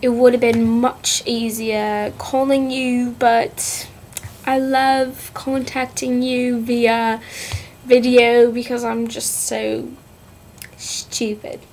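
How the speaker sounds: jokey fake British accent, held throughout; playful amateur British accent; put-on British accent. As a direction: chat to a friend in a mock British accent. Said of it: "talking in a British accent".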